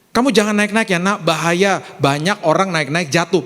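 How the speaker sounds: gentler caution, stepping down in pitch; milder demonstrated parental advice; kinder parental warning. Shown as a demonstration. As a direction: explain the danger to your child. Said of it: "Beda langsung perkataannya".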